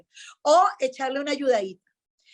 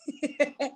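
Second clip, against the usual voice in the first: short laugh to herself; amused chuckle; 5 dB quieter than usual. Real, not acted. Recalling the food-for-publicity offer, amused chuckle. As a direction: chuckle briefly before going on.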